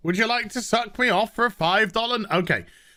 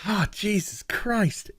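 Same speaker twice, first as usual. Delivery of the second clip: exasperated; 4 dB quieter than usual. Real, not acted. Exasperated sigh.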